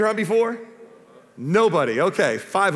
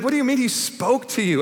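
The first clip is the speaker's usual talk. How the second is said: higher-pitched, incredulous challenge; mock-indignant question, pitched up; retold frustration; 5 semitones higher than usual. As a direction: act out your exasperated younger self. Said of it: "I used to get so frustrated with that".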